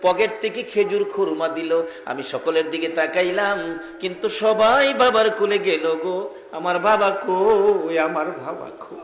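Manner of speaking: half-sing it, drawing out the cries; melodic sermon storytelling. Acted. Orphan child telling his mother of fatherless longing, plaintive chanting.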